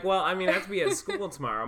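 put-on flustered kid pleading. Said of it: "I'm like".

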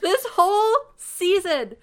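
loud, high, insistent repetition; emphatic exclamation. Real, not acted. Agreeing about the sheriff as dad, loudly emphatic. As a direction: hammer the phrase home, high and loud.

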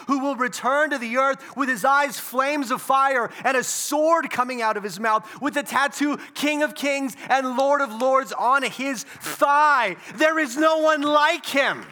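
loud, high, building sermon climax; preaching at full force. Acted. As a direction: proclaim it to the whole room.

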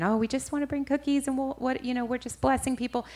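high-pitched, placating excuse; imitating a meek explanation; apologetic. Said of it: "I'm kind of apologetic".

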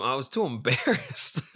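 breaking into real laughter at the end; laughing. Real, not acted. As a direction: retell the excuse and crack up. Cracks up retelling friend's excuse.

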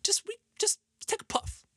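high, cracking, laughing peer pressure; Smokey from Friday. Retold or imitated. Stoner buddy pushing a puff, high and giggly. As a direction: squeak out the pushy stoner friend. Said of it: "like Smokey from Friday".

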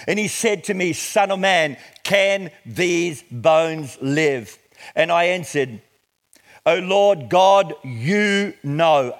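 measured, emphatic Bible reading; declaimed scripture with weighted key words. Acted. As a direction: read it out deliberately to a congregation. Reads scripture to congregation.

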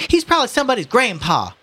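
high, indignant cry; screaming woman. Acted. Woman in the crowd defending the old man, shrill protest. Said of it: "a woman screamed".

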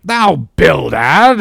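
loud, slow, high roar. A narrator's reading. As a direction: roar the name in outrage, drawn out. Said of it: "roared Peleg".

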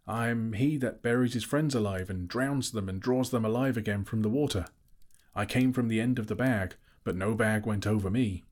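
riddling Bilbo. Acted.

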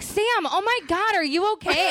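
high, alarmed concern; overdone panic over a friend; mock worried gasp. Friend imitating Anthony rushing up worried, high and alarmed. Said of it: "he's like".

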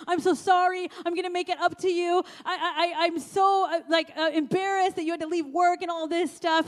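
retold apology, stumbling over itself; profuse apology. Retelling her apology to the man who came to help, flustered and profuse. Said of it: "I profusely apologize".

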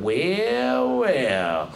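low, slow gloating villain; evil gloating. Acted. Fox gloats over the stuck rabbit, low and slow. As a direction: savor it like a sly villain. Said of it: "evil, grinning an evil grin".

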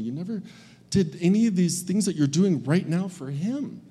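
put-on aggrieved older son venting at his father; bitter, entitled anger. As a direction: let years of grievance spill out. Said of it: "Can you hear that anger, that entitlement".

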